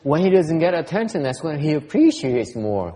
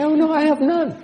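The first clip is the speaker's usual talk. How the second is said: high, loud laughing reply; laughing retort; 13 semitones higher, 7 dB louder than usual. Retold or imitated. Teacher recalling his answer to his wife, laughing. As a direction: tosses it back with a laugh. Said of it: "I say".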